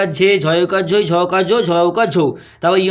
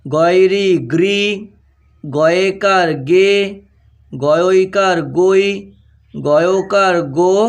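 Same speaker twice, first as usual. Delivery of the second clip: very slow, drawn-out syllables with pauses; spelling dictation; much slower than usual. Shown as a demonstration. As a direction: dictate each letter combination slowly, stretching the final vowel. (ধীরে টেনে টেনে বানান বলা)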